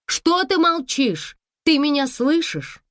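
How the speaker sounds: put-on high, loud, urgent young voice; anxious daughter. A narrator's reading. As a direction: press her mother to answer. (дочь тревожно кричит матери в трубку)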